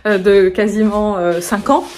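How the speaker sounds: ordinary delivery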